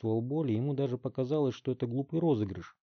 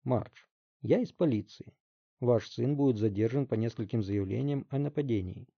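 calm. Acted. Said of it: "спокойно произнёс шеф".

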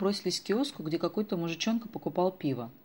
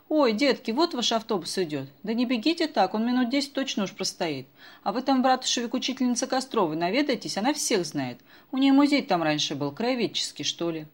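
put-on old woman voice; 6 semitones higher, 6 dB louder than usual. A narrator's reading.

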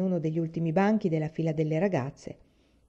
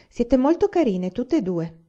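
higher, louder, drawn-out praise with a smile; smiling mother; 5 semitones higher, 5 dB louder than usual. A narrator's reading. Mamma praises her two girls before school, smiling. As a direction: say it slowly through a smile, pitched up. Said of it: "disse mamma sorridendo".

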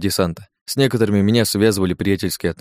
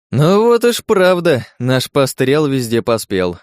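amused exclamation; 5 semitones higher, 4 dB louder, slower than usual. Acted.

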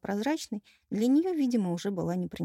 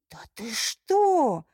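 objecting; 5 semitones higher, 5 dB louder, much slower than usual. A narrator's reading. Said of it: "возразила Альфина".

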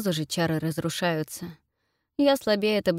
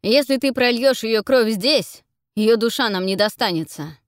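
angry scolding; 4 semitones higher, 7 dB louder than usual. Acted. Amar berating the Ghost, loud angry. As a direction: rage at the blunder. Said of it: "кричит Амар".

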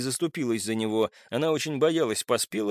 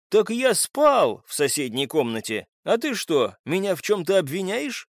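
sharp retort rising higher; 6 semitones higher, 3 dB louder than usual. A narrator's reading. Suspect answers the captive's questioning, sharply. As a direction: snap back at the accuser, pitch climbing. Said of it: "резко спросил Поспелов".

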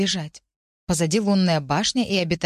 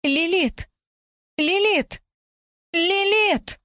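very high, loud repeated ghostly cry; a desperate spirit calling again and again; thundering ghost call; 12 semitones higher, 3 dB louder, much slower than usual. A narrator's reading. Ghost thundering the girl's name through her head, high and loud. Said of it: "Он громыхнул под потолком".

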